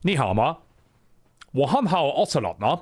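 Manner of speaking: mock phone greeting in Mandarin; Ocelot speaking Chinese. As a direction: play Ocelot switching into Chinese. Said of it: "he'd be like".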